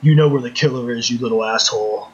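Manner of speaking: deadpan imitation of an earnest interrogation; understated, dead-serious quote. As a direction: play it straight, as if grilling a suspect. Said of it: "he's just being dead serious".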